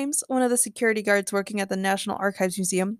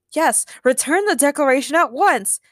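raised, loud order; stern shout; 5 semitones higher, 4 dB louder than usual. A narrator's reading. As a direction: order it firmly and loudly. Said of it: "James shouted".

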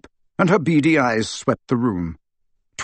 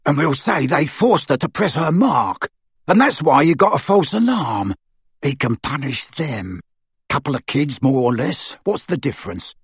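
callous thug; 2 semitones higher than usual. Acted. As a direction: dismiss the kids coldly. Amycus scheming.

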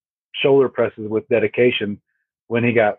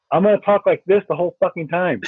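laughing mock threat; 6 semitones higher than usual. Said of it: "I'm like".

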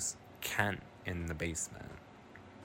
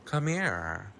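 low breathless whisper; hushed creepy invitation; 6 semitones lower than usual. Retold or imitated. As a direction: whisper it like a creep luring a kid. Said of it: "Kent goes".

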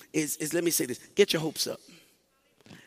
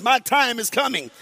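said with confidence, a bit louder; 4 semitones higher, 4 dB louder than usual. Shown as a demonstration. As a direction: declare it like you mean it. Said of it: "say it with confidence".

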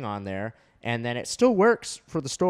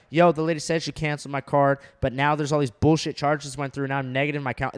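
heated; 4 dB louder than usual. Retold or imitated. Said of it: "I called the bank heated".

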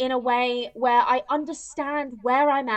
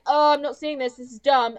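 louder scornful brush-off; dismissive teen; 5 dB louder than usual. Retold or imitated. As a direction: wave it away like a brat. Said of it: "she's like".

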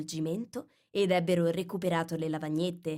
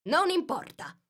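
relieved king; 11 semitones higher than usual. Acted. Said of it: "con espressione molto sollevata".

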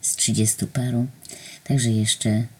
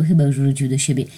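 ordinary delivery

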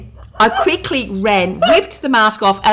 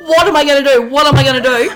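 mock panic; 4 semitones higher, 4 dB louder, faster than usual. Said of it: "I'm thinking".

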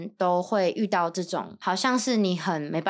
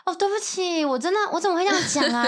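fake apology; 6 semitones higher than usual. Friend's fake apology, retold mockingly.

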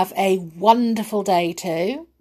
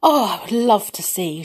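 delighted; 2 semitones higher, 4 dB louder than usual. Acted. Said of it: "she said delightedly".

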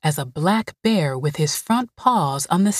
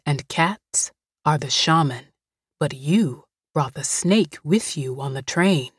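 put-on low, gentle housekeeper comforting a scared girl; Greasy soothing; 3 semitones lower than usual. Greasy calm.

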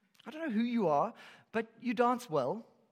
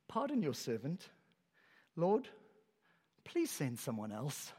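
timid plea; 4 semitones lower, 4 dB quieter than usual. Acted. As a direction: beg quietly to be let off. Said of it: "here's what he says".

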